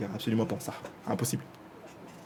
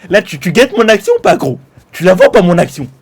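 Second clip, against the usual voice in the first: taunting; 7 dB louder than usual. Real, not acted. Taunting during the fight.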